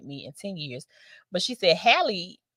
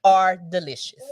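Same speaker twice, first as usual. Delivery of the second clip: laughing; 9 dB louder, slower than usual. Real, not acted. Laughing praise of fries.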